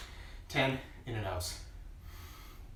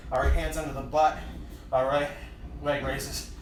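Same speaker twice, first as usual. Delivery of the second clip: coach calling out; 4 dB louder than usual. Acted. Coach calling next move.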